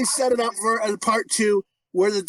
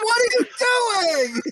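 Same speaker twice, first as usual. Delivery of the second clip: a hint of a kid talking on stream; son's online voice; 11 semitones higher, faster than usual. Dad imitating his son's online talk, lightly pitched up. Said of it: "like, how he talks online".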